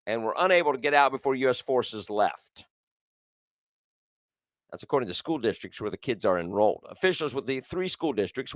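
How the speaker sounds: brisk news anchor read. Acted. Reads news story.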